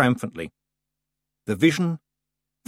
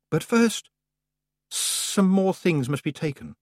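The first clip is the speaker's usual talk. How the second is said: Summer Lady voice; 7 semitones higher than usual. Acted.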